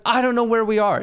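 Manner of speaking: high-pitched mock-frantic voice; imitated animated girlfriend. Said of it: "she's loud. She's animated".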